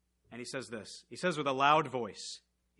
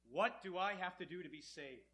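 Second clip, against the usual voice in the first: trembling; 2 semitones higher, 10 dB quieter than usual. Acted. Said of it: "he comes in trembling".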